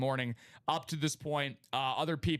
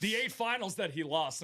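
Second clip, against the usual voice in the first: laughing through it; 5 semitones higher than usual. Real, not acted. Joking about choking on cough.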